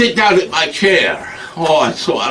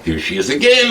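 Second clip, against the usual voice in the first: police quote; 3 semitones higher, faster than usual. Retold or imitated. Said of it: "they're police".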